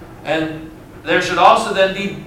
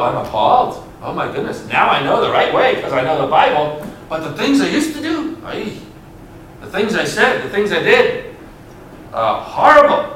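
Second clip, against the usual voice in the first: a hint of a horrified believer muttering to himself; mock disgust at his own past, half-whispered; appalled self-talk. Pastor voicing a believer recalling past sins, mock appalled. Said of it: "Think back on some of the things you did and go".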